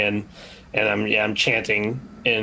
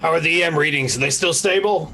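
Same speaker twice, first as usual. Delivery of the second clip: yelling from another room; 7 semitones higher than usual. Acted. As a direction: shout it across to the other room. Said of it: "I'm, like, yelling into the other room".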